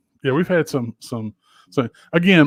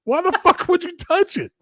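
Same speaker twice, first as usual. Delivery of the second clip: exasperated yell; 8 semitones higher than usual. Retold or imitated. Father scolding son who grabbed the hot thing, pitched high. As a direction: go way up, fed up with him.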